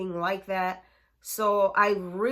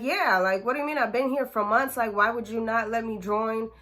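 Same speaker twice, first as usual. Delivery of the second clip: pushy protest; 3 semitones higher, 4 dB louder, faster than usual. Retold or imitated. Teen demanding to join gang.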